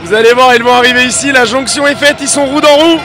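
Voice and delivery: live play-by-play. Acted. Live motocross race commentary.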